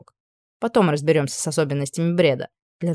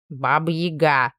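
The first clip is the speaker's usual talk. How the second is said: put-on creaky old man; 2 semitones lower, slower than usual. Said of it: "проскрипел старичок".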